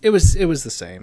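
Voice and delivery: emphatic. Real, not acted. Mock emphatic reply.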